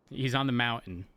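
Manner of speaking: "mountain" said with no T, held n sound in the middle; dropped T in mountain. Shown as a demonstration. Streamer showing chat how she says the word, dropped T. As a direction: glide through "mountain" as maun-n. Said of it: "I don't pronounce the T".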